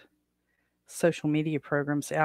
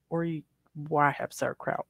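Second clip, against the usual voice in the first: talking through the hiccups; 5 dB quieter than usual. Real, not acted. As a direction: hiccup mid-sentence. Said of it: "I've got the hiccups again".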